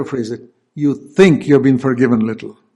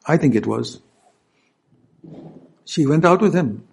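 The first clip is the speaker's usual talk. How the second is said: usual speaking voice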